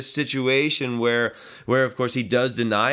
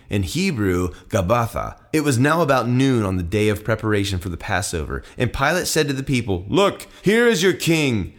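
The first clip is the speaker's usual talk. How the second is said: steady, slightly louder Bible reading; scripture reading; 4 dB louder than usual. Acted. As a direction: read the passage out to the congregation. Reads the scripture passage aloud.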